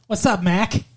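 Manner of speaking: lightly mocking Boston accent. Boyfriend mimicking girlfriend's speech, Boston accent. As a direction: tease with a Boston-accented greeting. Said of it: "Or no, Boston".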